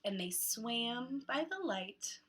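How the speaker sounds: slow, softened closing line; story ending. Acted. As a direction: ease into the last line gently.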